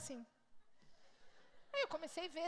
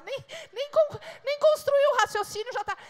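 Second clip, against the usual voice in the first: higher, louder breathless gush; excited rush; 9 semitones higher, 10 dB louder than usual. Acted. Wife acting women's instant excitement, higher and louder. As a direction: blurt out a half-formed idea. Woman's racing thoughts acted.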